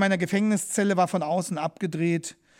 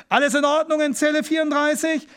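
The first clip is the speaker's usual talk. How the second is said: loud, higher barked official shout; gruff bellow; 8 semitones higher, 5 dB louder than usual. Retold or imitated. Policeman father bellows at the cell door, gruff shout. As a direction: bark it like a prison guard. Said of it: "brüllt mit barscher Stimme".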